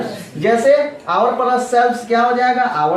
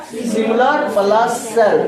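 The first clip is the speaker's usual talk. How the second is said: very slow, word by word; slow dictation; much slower than usual. Shown as a demonstration. Teacher dictating the rule very slowly. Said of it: "क्या लिखा है?".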